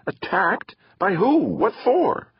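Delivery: put-on high, irritated girl's questions; annoyed. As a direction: fire back annoyed questions. Annoyed sister questions brother.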